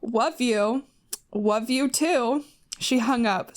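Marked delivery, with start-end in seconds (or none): 0.0-2.4 put-on whispered lisping baby talk; cutesy baby talk. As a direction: coo it like a lovesick teen. Reading the baby talk line.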